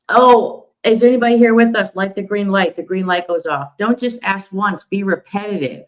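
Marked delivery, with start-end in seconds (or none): 0.1-2.8 calling out to spirits. Retold or imitated.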